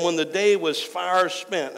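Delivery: "far" drawn out slowly; stress on far. Shown as a demonstration. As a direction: lean long and hard on the word "far". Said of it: "I wanna emphasize the word far".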